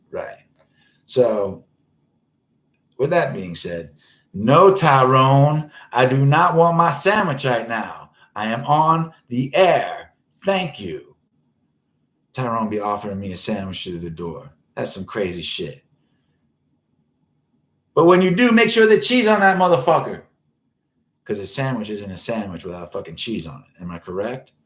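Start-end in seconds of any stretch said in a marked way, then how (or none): 4.3-11.1 loud, raised, slow call; calling through the door. Real, not acted. Host calling to Tyrone at the door about a sandwich, loud. 17.9-20.2 high, loud call out; calling through the door. Real, not acted. Host shouting to Tyrone about cheese, high and loud.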